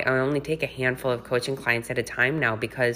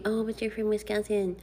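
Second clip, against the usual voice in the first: mocking voice; 9 semitones higher, 4 dB quieter than usual. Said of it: "don't tell me".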